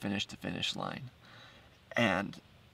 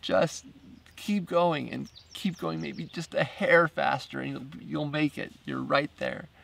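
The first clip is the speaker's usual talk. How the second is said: pleading; 5 semitones higher, slower than usual. Retold or imitated. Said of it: "pleading with her".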